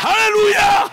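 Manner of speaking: high, loud hallelujah; excited shout. Real, not acted. Pastor cheering with the congregation, loud excited cry.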